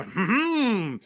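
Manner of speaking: high, hammed-up humming noise; imitated hmm-hmm. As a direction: mimic a mate's habitual hum, pitched high. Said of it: "he's always doing the".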